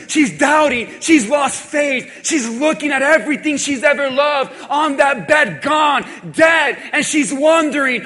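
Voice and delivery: vurige preek. Acted. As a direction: preach it full out to the congregation. Preacher builds to full force.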